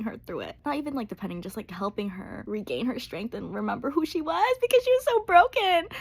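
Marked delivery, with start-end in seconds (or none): 4.9-5.9 "broken" said much higher and louder; emphatic. Real, not acted. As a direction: stress the word "was so broken" hard and high. Emotional emphasis.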